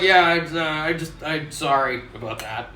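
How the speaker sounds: put-on sheepish boyfriend. Cheating boyfriend quoted.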